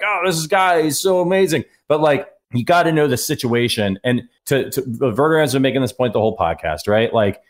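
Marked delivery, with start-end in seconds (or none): 0.0-1.6 gushing like a wowed fan, higher pitch; mock gushing. Fan marvelling at a play he made, mock gushing. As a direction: imitate an awed fan's gush. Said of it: "you're like".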